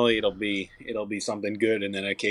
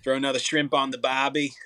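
a light, slightly raised Australian accent; 4 semitones higher than usual. Shown as a demonstration. Singer shows the host his Australian accent, lightly done. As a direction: toss off the line like an Aussie barbie ad. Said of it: "at my Australian accent".

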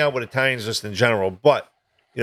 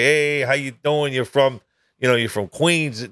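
mock Queens accent; slower than usual. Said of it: "they look at you and they say".

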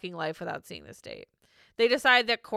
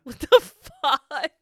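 stunned disbelief; 6 semitones higher, 7 dB louder, much slower than usual. Real, not acted. Stunned laughing.

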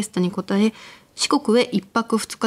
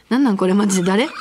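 panicked rapid-fire; faster than usual. Acted. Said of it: "早口でまくし立てました".

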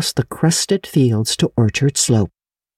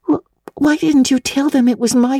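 demanding; 12 semitones higher than usual. A narrator's reading. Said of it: "demanded Anne".

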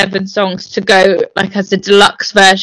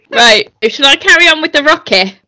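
words through fading laughter; laughing; 4 semitones higher than usual. Real, not acted. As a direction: still giggling as you speak. Still laughing after impression.

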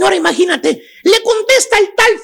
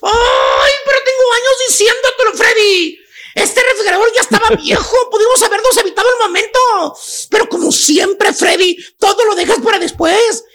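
mock nagging wife scolding. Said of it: "le dice".

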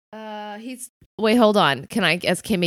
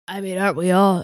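wrong character voice; 4 dB louder than usual. Acted. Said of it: "sorry, that's the wrong voice".

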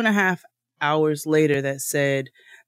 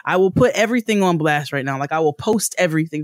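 raised, heated threat; angry threat; 4 semitones higher, 4 dB louder than usual. Retold or imitated. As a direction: call them out loud and angry. Threatening the rep on Twitter.

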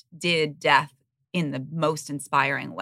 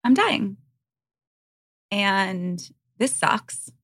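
imitated matter-of-fact Southern mom; 3 semitones higher, much slower than usual. Daughter quoting mom on dying, matter-of-fact Southern accent. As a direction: state it bluntly as a Southern mom. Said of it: "just so matter of fact".

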